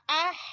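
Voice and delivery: اہ ending in a long breath from mid-throat. Shown as a demonstration. Teacher showing where ha forms, mid-throat h in اہ. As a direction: push the h of اہ out from the middle throat. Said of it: "وسط حلق۔".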